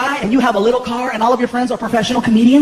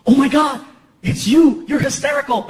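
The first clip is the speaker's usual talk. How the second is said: mock-amazed fan, a bit louder; lightly voiced officer thrilled to recognize someone; starstruck border officer; 3 semitones higher, 4 dB louder than usual. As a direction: act out a delighted double take. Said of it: "Border Patrol comes over the window".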